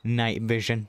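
muffled behind a hand, slow; talking through fingers in awe; hand over mouth. Real, not acted. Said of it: "I have my hand over my mouth".

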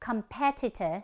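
"competitor" stressed on PE; second-syllable stress. Shown as a demonstration. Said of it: "chúng ta nhấn âm thứ nhì". (nhấn âm thứ nhì của "competitor")

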